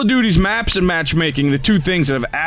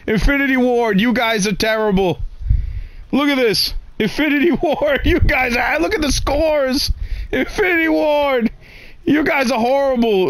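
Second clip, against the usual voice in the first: high, exasperated rant; raging gamer; 7 semitones higher than usual. Real, not acted. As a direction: yell at the developers in disbelief. Ranting at developers, pitch high.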